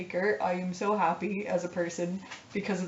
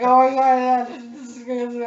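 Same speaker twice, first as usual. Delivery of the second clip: retold excited yell; 5 semitones higher, 8 dB louder than usual. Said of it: "wordless screaming, just like".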